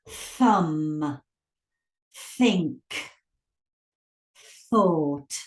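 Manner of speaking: thumb, think, thought one by one, airy th; unvoiced th. Shown as a demonstration. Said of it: "sounded consonant".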